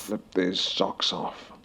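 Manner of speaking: drawn-out sultry repeat; slow mock-seductive. Slowly teasing the socks off for Hannigan.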